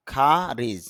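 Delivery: খারিজ with an aspirated kh and an ending z sound; IPA pronunciation. Shown as a demonstration. Teacher reads the word from the IPA for students, aspirated. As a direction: breathe on the k and end খারিজ on a z. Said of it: "উচ্চারণ করতে হবে এইভাবে".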